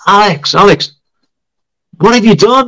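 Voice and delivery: high-pitched astonished calling out; amazed swimmer. Retold or imitated. Swimmer hailing the teacher about the change, amazed. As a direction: call over in disbelief, pitched right up.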